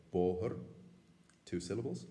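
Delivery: bóthar said in two full syllables; two-syllable form. Shown as a demonstration. Teacher giving the common two-syllable way of saying it. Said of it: "how many people would say it".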